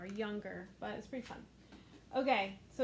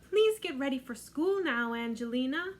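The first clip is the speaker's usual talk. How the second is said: calling mother; 4 dB louder than usual. Acted. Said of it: "mother was always calling to her".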